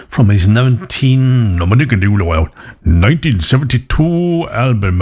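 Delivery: slow, lilting Welsh accent. Real, not acted. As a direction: slip into a broad Welsh accent. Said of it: "I have gone into a very Welsh accent there".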